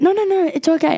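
high, quick-to-forgive reassurance; imitated seatmate insisting it's fine; retold reassurance. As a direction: wave off an apology, pitched high. Retold seatmate waving off apology.

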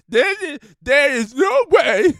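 high, whiny Sandler-style disbelief; Adam Sandler impression. Host doing Adam Sandler to listeners, high whiny voice. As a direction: jump up high into a goofy Sandler whine. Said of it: "that's my Adam Sandler".

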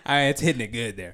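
laughing through the words. Real, not acted. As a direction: chuckle while talking fast. Laughing about the pepper stuck.

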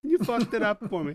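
hammed-up villain fury; pissed villain. Villain scolding the kid over his ruined masterpiece, mock furious.

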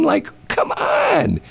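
drawn-out exasperated call; exasperated shout. Real, not acted. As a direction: throw up your hands at it. Exasperated outburst about compliance.

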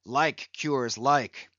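brooding captain. Acted. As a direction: speak gently but gravely to the boy. Ahab speaks to Pip.

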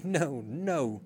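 pleading cry of fear; cowering cry. A narrator's reading. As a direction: cry out, cowering before the captain.

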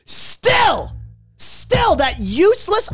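high, drawn-out exasperated cry; exasperated outburst. Real, not acted. Ranting about an award show host, high exasperated outburst. Ranting in disbelief at Trevor Noah.

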